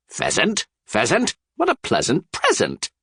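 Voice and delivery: high, delighted wordplay; gleeful. A narrator's reading. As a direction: savour the rhyme with glee. Shrek delighted.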